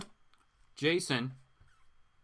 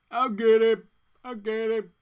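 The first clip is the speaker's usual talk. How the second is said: loud, higher, snarling villain voice; villain threat; 6 semitones higher, 8 dB louder than usual. Acted. Reading a comic, he voices the villain's threat in a loud high snarl. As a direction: spit out the threat like a cartoon villain.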